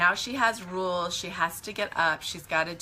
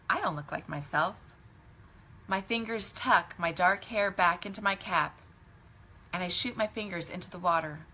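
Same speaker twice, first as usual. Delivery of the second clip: story narration. A narrator's reading. Resumes reading the story aloud.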